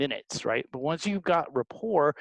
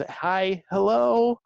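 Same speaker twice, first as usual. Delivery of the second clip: bright, much higher and louder greeting; chirpy phone greeting; 6 semitones higher, 4 dB louder, much slower than usual. Retold or imitated. Sally the paper maker answering the call, sing-song cheerful. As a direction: chirp it like a happy customer picking up.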